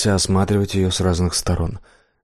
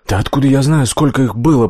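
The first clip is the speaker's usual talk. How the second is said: high, louder squeal in a strange voice; squeaky panic; 5 semitones higher, 5 dB louder than usual. Acted. Blacksmith squealing at Death in panic, not his own voice. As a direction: squeak it out in terror. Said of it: "не своим голосом пропищал кузнец".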